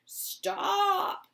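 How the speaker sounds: put-on high old man's shout. Grandpa Joe shouts at Wonka, alarmed. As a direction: yell in alarm. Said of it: "shouted Grandpa Joe".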